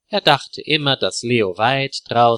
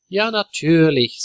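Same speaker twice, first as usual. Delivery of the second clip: friendly smile; 6 semitones higher than usual. A narrator's reading. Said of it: "mit einem freundlichen Lächeln".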